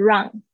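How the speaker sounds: "wrong" said like "rung"; mispronounced "wrong". Shown as a demonstration. Teacher repeats the error to avoid, mispronounced "wrong". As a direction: swap the vowel in "wrong" for a short one. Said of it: "不是wrong".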